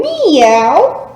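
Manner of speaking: a lighter meow at normal pitch, rising at the end; a quick little meow after the big one. Shown as a demonstration. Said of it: "And back to cat".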